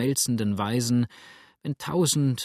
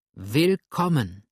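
slow joyful welcome; 2 semitones higher, slower than usual. A narrator's reading. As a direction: welcome them gladly. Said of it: "rief da eine freudige Stimme".

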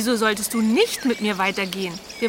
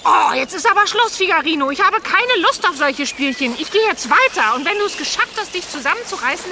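fed-up scolding; 4 semitones higher than usual. Acted. Bärbel scolds Figarino.

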